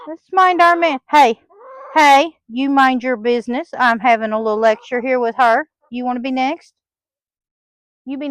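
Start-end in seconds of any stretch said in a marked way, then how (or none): 0.1-3.7 raised voice telling the hen off; stern loud scolding. Real, not acted. Owner scolding a meddling hen, loud and stern. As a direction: bark the order at the hen.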